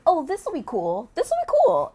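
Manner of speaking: high, loud, drawn-out delight; excited reaction. Retold or imitated. Actress recalling first seeing her costume, excited. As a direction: re-enact being thrilled, pitch leaping up.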